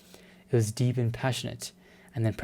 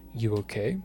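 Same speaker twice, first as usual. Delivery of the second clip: whisper; 2 semitones lower than usual. Acted. Voicing Alan's tender line.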